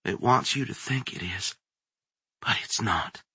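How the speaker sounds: frantic inner voice. A narrator's reading. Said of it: "Kate's mind screamed".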